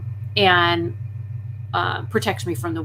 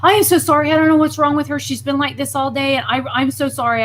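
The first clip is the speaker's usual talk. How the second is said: apologetic second woman; 5 semitones higher, 4 dB louder, faster than usual. Retold or imitated.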